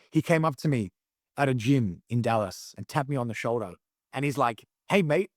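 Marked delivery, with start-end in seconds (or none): 4.9-5.3 a light imitated Aussie accent greeting; lightly put-on Aussie accent, higher. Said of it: "puts on an Aussie accent and goes".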